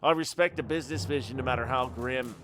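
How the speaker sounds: Irish mob boss, calm and menacing; Irish accent. Acted. Irish boss threatening Mister Moore over a debt. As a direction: lay down the law in an Irish brogue. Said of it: "I had to start doing it with the Irish accent".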